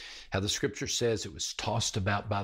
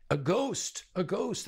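mock terror; 9 semitones higher than usual. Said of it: "They cried out in terror".

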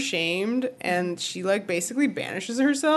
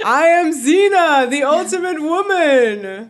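booming warrior boast, higher and louder; barbarian; 6 semitones higher, 5 dB louder than usual. Acted. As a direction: announce yourself like a wrestler. Acting Xena's wrestling boast.

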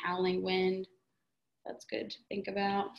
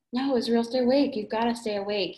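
pleading with a dying friend, raised voice; desperate cry; 2 semitones higher, 5 dB louder than usual. Acted. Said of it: "he cried".

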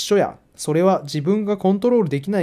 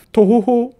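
mock dejected sigh; 5 semitones higher, 7 dB louder, slower than usual. Reads hero's sigh line.

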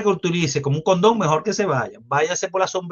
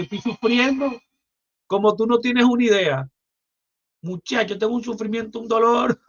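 mock suffering; 5 semitones higher than usual. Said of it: "ironic claim of suffering".

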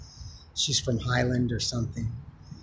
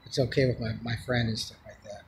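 retold gentle refusal, tailing off softer; gentle letdown; 2 semitones lower, 3 dB quieter than usual. Man tells woman she can't stay, retold gently. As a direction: ease them into a no. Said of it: "trying to be as gentle as possible".

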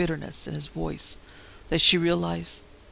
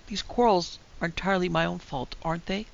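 voice trembling a little. Acted. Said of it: "her voice trembling a little".

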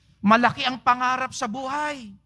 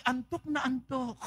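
drowsy mumble; 2 semitones higher, 10 dB quieter than usual. Pretend. Sleepy at Bible study.

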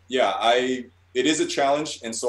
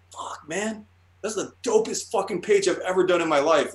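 higher, pumped-up self-praise; a touch of hammed-up excitement; mock hyped; 6 semitones higher than usual. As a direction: sell it like your best page ever.

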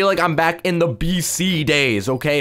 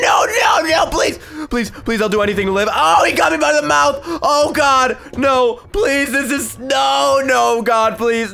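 mock pleading; 7 semitones higher, slower than usual. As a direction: beg for your life, comic panic. Mock begging the dinosaur for life.

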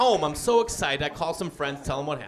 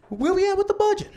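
mock boss; 11 semitones higher, faster than usual.

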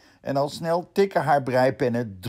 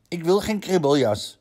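een vleugje boos, luider; 6 semitones higher, 4 dB louder than usual. Acted. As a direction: laat een licht boze hond horen. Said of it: "zegt Rientje boos". (Rientje weigert de jas, licht boos)

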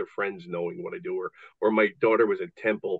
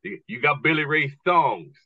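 slow, lightly voiced redneck drawl; a hint of a slow, menacing redneck; 4 semitones higher than usual. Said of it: "two giant rednecks go".

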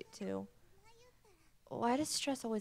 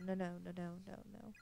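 softer, trailing off into a hush; fading denial; 5 dB quieter, faster than usual. Acted. Mayu lost and alone, denial fading to nothing. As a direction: let the nos die away in despair. Mayu panics in strange place.

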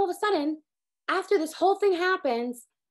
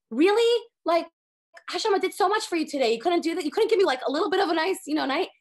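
exasperated; 4 semitones higher, 3 dB louder than usual. Retold or imitated. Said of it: "And you're like".

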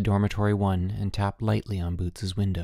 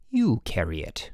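ordering. A narrator's reading. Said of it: "ordered Mister Sturgeon".

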